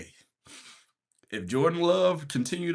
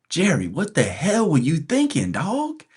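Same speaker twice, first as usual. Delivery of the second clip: exasperated; 4 semitones higher, 4 dB louder than usual. Real, not acted. Confronting team owner over bad trade.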